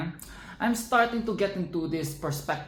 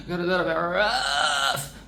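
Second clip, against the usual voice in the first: laughing. Real, not acted. Repeating the line to viewers while laughing.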